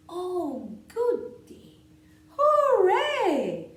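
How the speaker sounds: high, bursting with joy, hooray shouted; excited cheer. Acted. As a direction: squeal with delight at the rain. Duck delighted about rain.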